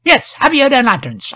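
high, insistent echo; officious rustic constable. A narrator's reading. Constable echoes the officer's order, high and officious.

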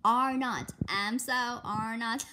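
put-on loud, childish back-and-forth; bickering. Sisters bicker about a pet snake, loud. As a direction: snap it back like a kid.

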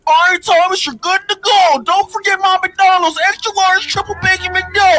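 conductor voice. Retold or imitated. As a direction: call it out like a cheery conductor. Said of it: "And the conductor would say".

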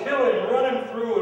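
very loud, high-pitched retold jeer; angry crowd yell. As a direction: yell like an annoyed mob. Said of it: "and yelled".

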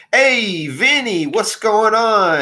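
loud, high drawn-out greeting; calling out. Acted. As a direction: holler to a pal across the room. Flump calls out to Vinny.

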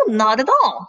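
mildly scolding, firm denial; a touch of motherly reproof. Acted. Mother wolf corrects her son, mildly scolding. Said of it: "scolded his mother".

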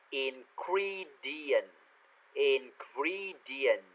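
slow "ingredient", the e said as an ee sound; e read as i. Shown as a demonstration. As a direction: stretch "ingredient" out with e as i. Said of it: "chữ âm e thì đọc là âm i". (đọc chậm "ingredient", chữ e thành âm i)

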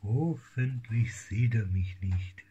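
voicing a shy kitten in a whisper; pretending to be a timid kitten, hushed; whispered kitten thought. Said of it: "Und denkt".

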